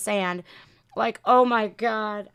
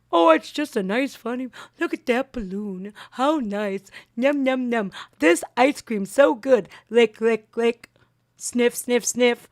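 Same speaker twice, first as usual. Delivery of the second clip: put-on childish babble about balloon and ice cream; mock doddering Biden. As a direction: act out an oblivious old man savoring ice cream.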